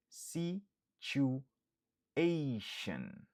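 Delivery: very slow whispered Situation; a whispered demo of Situation; whispered model word. Shown as a demonstration. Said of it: "Ki siyifi sitiyasyon".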